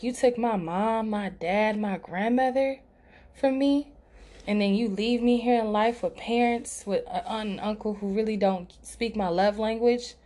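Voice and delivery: recalling a furious complaint to God, voice climbing on "from me"; retold anger at God. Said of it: "that's the first time I ever was angry, angry with God".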